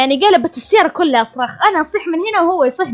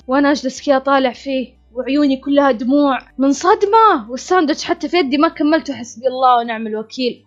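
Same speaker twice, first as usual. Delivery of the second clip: ordinary delivery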